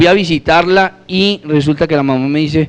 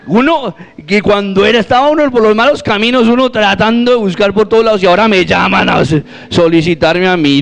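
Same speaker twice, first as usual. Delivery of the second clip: higher-pitched comic complaint, easing down; mock indignant protest; 4 semitones higher than usual. Man complains to God about the timing, mock indignant. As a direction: protest in a raised pitch, half in jest.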